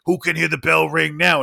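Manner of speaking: put-on loud, triumphant Jersey hobo accent; New Jersey accent. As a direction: call out to the train in a brash Jersey accent. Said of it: "the most New Jersey fucking voice".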